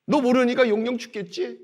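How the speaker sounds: preacher showing the wrong scornful tone; mocking taunt. Shown as a demonstration. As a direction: taunt him as if to ridicule. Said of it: "빈정의 투가 아닙니다".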